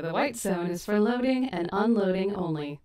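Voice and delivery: flat robotic announcer voice; robot voice reading a notice. Retold or imitated. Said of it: "I sound like the robot".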